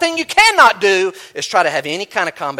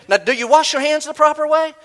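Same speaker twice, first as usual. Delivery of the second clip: mock legalist voice; 9 semitones higher, 4 dB louder than usual. Preacher voices a legalist questioner.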